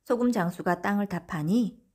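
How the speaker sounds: ordinary delivery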